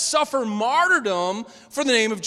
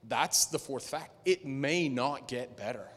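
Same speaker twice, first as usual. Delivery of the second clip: somber quiet; 8 semitones lower, 7 dB quieter than usual. Real, not acted. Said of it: "somber statement of fact".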